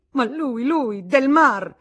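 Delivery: high, very loud indignant shout, last words stretched; explosive outburst. A narrator's reading. Woman naming the culprit to Federico, exploding in anger. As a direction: explode with exasperated fury. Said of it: "Tutto a un tratto esplose".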